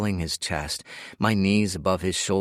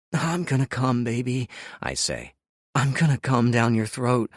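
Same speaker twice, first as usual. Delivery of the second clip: breathless arousal; 5 semitones higher than usual. Acted. Moaning during sex scene.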